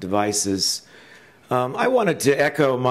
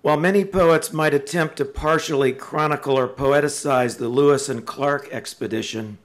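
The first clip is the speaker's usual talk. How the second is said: measured, prepared podium delivery; formal introduction speech; 2 semitones higher than usual. Real, not acted. Introducing poet James Tate to an audience, formal speech. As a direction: read out a tribute with careful pauses between phrases.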